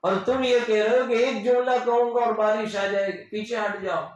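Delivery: put-on an irritated elder brushing a child aside; angry uncle. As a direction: snap at the boy impatiently. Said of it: "تو چچا ابو طالب کو غصہ آ گیا".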